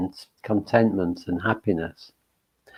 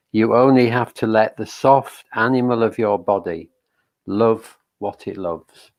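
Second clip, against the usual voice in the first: measured, gentle poetry reading, slightly raised; reading a poem. Shown as a demonstration. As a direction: read the opening line like a poem to the group. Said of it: "I'll just start by reading a little bit of, um, uh, Mary Oliver's poem".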